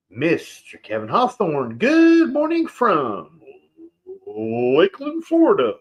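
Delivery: booming radio DJ greeting. Pretend. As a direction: announce it like a morning DJ. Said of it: "Had my radio voice going there for a second".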